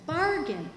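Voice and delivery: pause, then land on "bargain" as the key word; stress on bargain. Shown as a demonstration. Union lecturer stressing the word to the class, "bargain" emphasized. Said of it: "I want to emphasize the word bargain".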